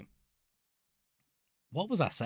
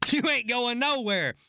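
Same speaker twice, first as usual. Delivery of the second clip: laughing while teasing; 8 semitones higher than usual. Real, not acted. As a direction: chuckle through the words. Teasing new hire, laughing.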